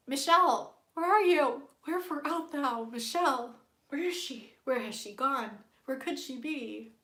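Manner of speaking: loud theatrical calling. Pretend. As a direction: call out dramatically. Calls out searching for Michelle.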